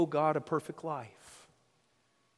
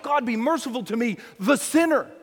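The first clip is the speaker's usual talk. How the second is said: crying out; 5 semitones higher, 3 dB louder than usual. Acted. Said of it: "I think he's crying out".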